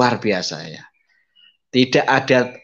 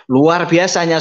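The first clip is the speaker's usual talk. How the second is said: louder, higher burst of praise; preacher exclaiming God's goodness; fervent praise; 7 semitones higher, 5 dB louder than usual. Real, not acted. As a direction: proclaim God's wonder to the congregation. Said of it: "climax of testimony".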